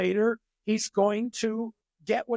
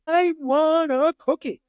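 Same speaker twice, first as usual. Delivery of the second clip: put-on much higher, louder child on the verge of a tantrum; near-tantrum demand; 9 semitones higher, 6 dB louder than usual. Timmy about to throw a tantrum at mom, loud whiny demand. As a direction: wail it like a kid about to melt down. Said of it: "ready to have a tantrum".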